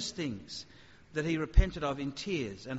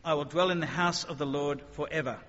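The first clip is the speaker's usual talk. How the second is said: quoting the psalm; 5 dB louder than usual. Acted. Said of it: "he says".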